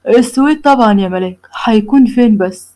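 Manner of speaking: mock-innocent teasing, slowing at the end; lightly voiced teasing husband. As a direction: needle her playfully. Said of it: "فبيرخم عليها ويقول لها".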